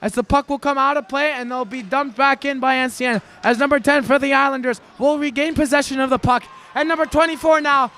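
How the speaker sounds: fast, excited live hockey call; hockey play-by-play. Acted. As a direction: call the game like a rink announcer.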